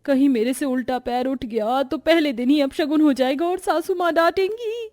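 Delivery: anxious inner murmur, rising in pitch at the end; nervous fear. Acted. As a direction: worry to yourself as the dread mounts. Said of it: "मुझे बहुत डर लग रहा है".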